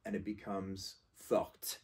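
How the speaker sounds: forte with the final T sounded, slowly; feminine forte. Shown as a demonstration. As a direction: say forte as "fort", T pronounced. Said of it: "we add an E".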